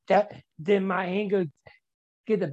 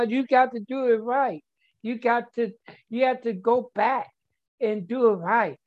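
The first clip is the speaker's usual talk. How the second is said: sponsor's voice; 4 semitones higher than usual. Retold or imitated. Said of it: "My sponsor telling me that".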